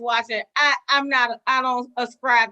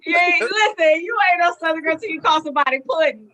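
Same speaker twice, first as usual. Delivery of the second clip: higher, crying with laughter; laughing exclamation; 4 semitones higher than usual. Real, not acted. Teasing about calling folks pudding, laughing half-shout. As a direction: shout it through tears of laughter.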